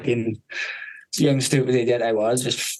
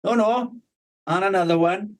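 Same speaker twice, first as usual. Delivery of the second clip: stepfather egging on; 7 semitones higher than usual. Retold or imitated. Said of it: "my stepfather goes".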